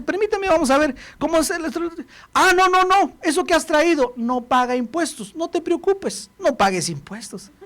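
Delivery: a hint of a cheerful accountant; chatty accountant. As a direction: reassure the client breezily. Accountant voiced in story.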